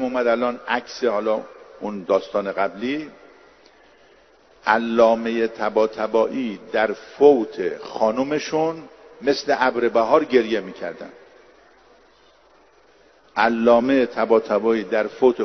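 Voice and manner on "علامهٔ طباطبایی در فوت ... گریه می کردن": slow first take. Shown as a demonstration. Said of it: "repeats the same sentence".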